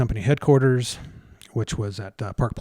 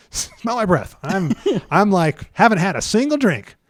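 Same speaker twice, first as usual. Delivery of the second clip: laughing denial; 8 semitones higher, 6 dB louder, slower than usual. Retold or imitated. Husband denies drinking, laughing.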